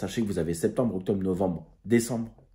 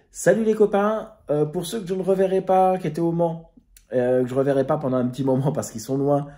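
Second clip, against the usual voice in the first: much higher, louder goodbye to friends; cheery farewell; 6 semitones higher, 3 dB louder than usual. Real, not acted. Vlogger waving off friends from Le Mans, cheery and high. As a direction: call out a bright goodbye to the crew.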